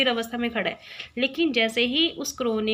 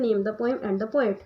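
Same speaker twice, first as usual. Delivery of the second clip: slow question reading; 2 semitones lower, much slower than usual. Shown as a demonstration. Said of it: "main question क्या होता है".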